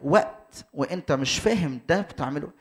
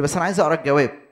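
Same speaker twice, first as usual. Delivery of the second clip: impatient student; 6 dB louder, much faster than usual. Acted. Impatient student pushes the teacher.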